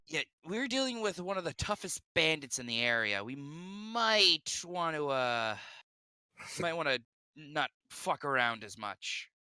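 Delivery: put-on light in-character Mexican accent; a touch of a Mexican accent. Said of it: "in my accent".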